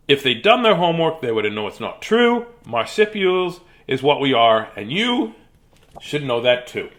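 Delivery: storybook animal, mildly indignant; lightly voiced lecturing Warren. Warren telling readers what marsupials are, mildly indignant. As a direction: set them straight with deliberate pauses.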